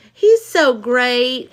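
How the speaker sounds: slow, dreamy mock praise; mocking fan gush. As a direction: drawl it like a starstruck fan. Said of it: "these dummies that are like".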